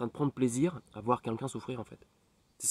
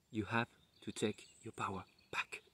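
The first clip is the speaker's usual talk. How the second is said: quietly voiced neighbour, a little softer; soft quoted advice; 7 dB quieter than usual. Neighbour tells him to reclaim his power, softly. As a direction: say it gently, like a kind reminder. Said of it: "ma voisine qui me dit".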